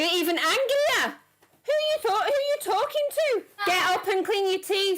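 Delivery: high, sharp scolding; heated family shouting. Real, not acted. Mother scolds answering back.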